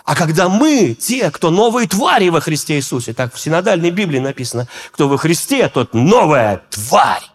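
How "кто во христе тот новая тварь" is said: flat reading. Shown as a demonstration. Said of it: "Когда я это прочитал, я расстроился".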